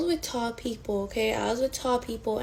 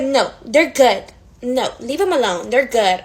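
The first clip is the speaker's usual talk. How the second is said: mock bouncer; 6 dB louder than usual. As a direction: brush them off like the bouncer. Mocking the bouncer again.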